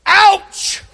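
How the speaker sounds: short high clipped ouch; boy's tough ouch. Retold or imitated. Boy hit by a ball, shrugging it off with a high ouch. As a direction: play it off like it barely hurts. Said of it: "He goes".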